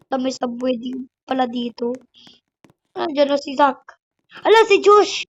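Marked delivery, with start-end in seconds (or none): 4.4-5.2 higher-pitched excited exclamation; surprised cry. Real, not acted. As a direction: exclaim at suddenly spotting a friend. Suddenly spots Josh in the game. (gulat at sabik na bulalas)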